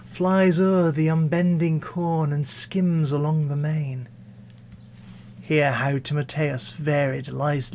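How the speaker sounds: smooth verse reading, fading at the close; poetry recitation. Acted. Closing Pope's poem on sound and sense, gentle poetry recitation. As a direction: let the lines glide, then sink away softly. Recites the poem's lighter lines.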